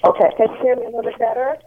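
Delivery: muffled Bluetooth headset sound; speaking through a bad headset; headset audio. Real, not acted. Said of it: "it doesn't sound good".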